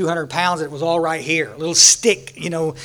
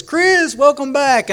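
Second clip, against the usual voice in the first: much higher, sing-song chairperson greeting; cheery welcome; 9 semitones higher, 5 dB louder, much slower than usual. Retold or imitated. Chairperson greets Chris returning to the meeting, high and cheery. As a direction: greet him brightly like an old friend.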